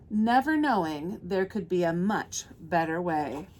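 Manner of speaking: lingering over each describing word; picture-book reading. Acted. Reads picture book to children.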